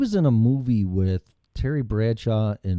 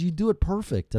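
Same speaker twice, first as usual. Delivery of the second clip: mimicking his friend; 9 semitones higher than usual. Friend praises his Arnold voice.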